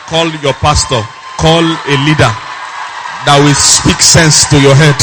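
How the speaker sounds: loud preacher's urging; loud, emphatic counsel to the congregation; forceful exhortation. Real, not acted.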